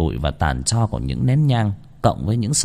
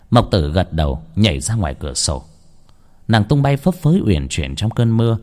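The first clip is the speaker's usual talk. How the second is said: ordinary delivery, nothing marked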